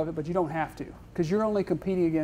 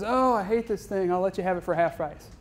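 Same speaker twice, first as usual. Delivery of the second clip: gloomy worry. Retold or imitated. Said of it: "he's all worried about the world".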